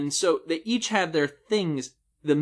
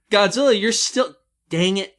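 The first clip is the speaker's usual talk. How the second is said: dark lord; 6 semitones higher, 7 dB louder than usual. Acted. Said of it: "It's the underdog going around".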